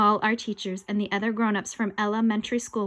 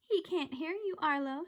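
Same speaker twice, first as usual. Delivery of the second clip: much softer, hushed; soft taunt; 6 semitones higher, 8 dB quieter than usual. Acted. Ghost quietly telling Arlo, softer. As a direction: murmur it to him.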